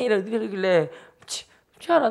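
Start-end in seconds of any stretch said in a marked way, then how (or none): 1.2-2.1 high-pitched mock sulk; huffy dismissal. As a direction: brush off a sister in pretend pique. Brother huffs off, acted.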